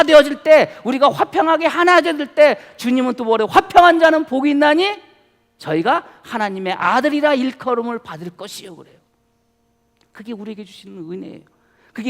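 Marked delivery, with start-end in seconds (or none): 3.5-8.8 scripture quote. Acted. Quoting beatitude in sermon.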